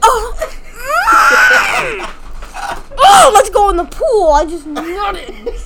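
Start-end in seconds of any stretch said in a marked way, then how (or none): 0.0-2.9 long, high, loud mock moan; exaggerated drawn-out moan, pitched up. Imitating a friend in the pool story, exaggerated moan. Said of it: "he's just like". 3.0-4.3 imitating friend. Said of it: "he's just like".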